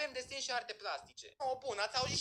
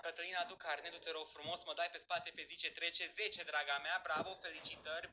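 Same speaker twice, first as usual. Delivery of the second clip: lightly voiced teacher, lower in pitch; 5 semitones lower than usual. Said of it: "vorbesc și eu așa ca o profesoară".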